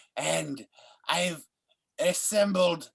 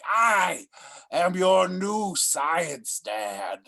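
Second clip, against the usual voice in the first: dramatic proclamation; much slower than usual. Acted. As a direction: declare it like a mad scientist. Mad doctor proclaims himself.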